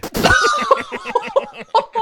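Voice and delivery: shrieking high laugh. Real, not acted. Father cracking up at his son's insult, high shrieking laugh.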